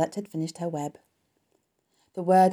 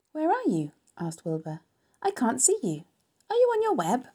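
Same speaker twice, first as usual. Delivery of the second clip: anxious calling; 8 semitones higher than usual. Acted. Wilbur anxiously seeks Charlotte.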